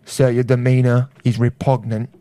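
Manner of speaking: put-on Cockney, formal put-down; Cockney accent. Offended man addressing a sir about his demeanor, Cockney accent. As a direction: scold a gentleman in mock Cockney. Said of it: "Oh, why is he Cockney?".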